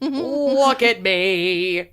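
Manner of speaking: slow, lightly voiced teen princess. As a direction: drawl it out like a spoiled teen. Mock teen princess pose.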